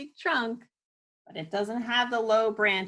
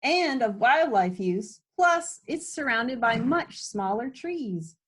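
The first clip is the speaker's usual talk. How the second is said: high and loud, eager checklist; excited listing; 6 semitones higher, 4 dB louder than usual. Acted. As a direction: rattle off each sign with delight. Kids listing wolf tree signs.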